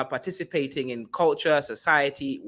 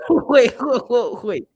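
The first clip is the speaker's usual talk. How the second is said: laughing; 7 semitones higher, 8 dB louder, much slower than usual. Real, not acted. Streamer stops the clip laughing.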